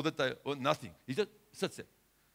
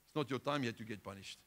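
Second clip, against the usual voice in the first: softer, gentle reassuring reply; a touch of gentle kindness; kindly; 4 semitones lower, 4 dB quieter than usual. Retold or imitated. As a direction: answer kindly and calmly, dropping the voice. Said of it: "Jesus replied very kindly".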